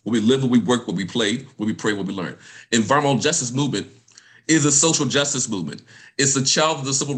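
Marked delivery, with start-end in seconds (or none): 0.0-2.4 a little slower. Shown as a demonstration. Speaker repeating the list for y'all, a little slower. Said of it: "Let me say it a little bit slow for y'all".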